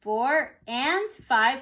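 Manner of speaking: very slow counting with each "and" spoken out; slow, spelled-out subdivision count; slow subdivided count. Shown as a demonstration. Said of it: "So I'm counting it".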